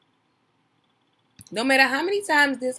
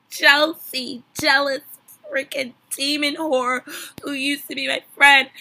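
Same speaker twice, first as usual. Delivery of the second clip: loud, high mock rant at a former friend; hammed-up outraged quote; mock outburst; 4 semitones higher, 8 dB louder than usual. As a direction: blow up in the voice of a wronged reality star.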